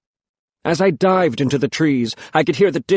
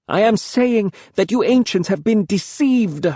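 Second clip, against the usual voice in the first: urgent; 9 semitones higher than usual. A narrator's reading. Boy accuses the elders.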